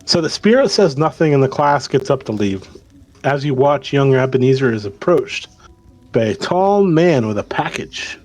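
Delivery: measured storytelling read; game master narration. Acted. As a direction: set the scene for the players. Game master tells the scene.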